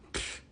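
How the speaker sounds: short puff of air; dismissive puff of breath; imitated sputter. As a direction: blow out a quick pff for the dead car. Imitating car failing to start.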